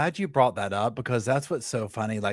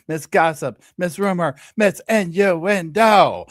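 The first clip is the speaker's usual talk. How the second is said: teasing build; 5 semitones higher, 4 dB louder, slower than usual. Acted. Teasing co-host introduction.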